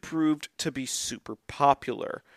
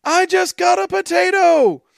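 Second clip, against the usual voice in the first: put-on high, loud child's voice; excited kid; 8 dB louder than usual. Kid running down the street, high excited child voice. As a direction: squeal it like a thrilled kid. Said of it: "a kid running down the street saying".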